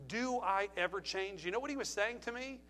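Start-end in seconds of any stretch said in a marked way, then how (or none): 0.1-1.5 condescending. Retold or imitated. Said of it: "said it in almost like a, a condescending way".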